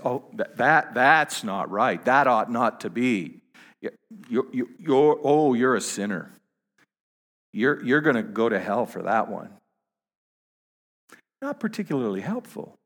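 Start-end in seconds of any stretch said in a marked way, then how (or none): 0.0-9.5 mock scolding, a touch louder; self-righteous scolding. Pastor mocking self-righteous churchgoers, mild mock scolding. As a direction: lightly play a smug judge. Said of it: "we can be the self-righteous people who say".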